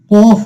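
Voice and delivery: কফ with a full, heavy opening consonant; heavy letter name. Shown as a demonstration. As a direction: say কফ long and heavy, falling at the end. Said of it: "একটু মোটা করতে হয়".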